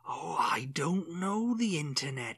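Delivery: put-on slow stereotypical Welsh accent. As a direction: play a stereotypical Welshman, slowly. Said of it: "He's, like, stereotypical".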